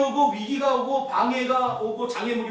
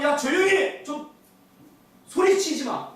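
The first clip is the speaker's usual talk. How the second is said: high, raised-voice retold rebuke; angry hushing; 7 semitones higher, 4 dB louder, slower than usual. Onlookers blocking the blind man, loud mock scolding. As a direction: act out telling someone loudly to stop shouting.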